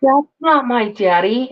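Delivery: put-on slow, drawn-out kid's denial; imitated child protest. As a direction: draw it out like a child objecting. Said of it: "And he goes".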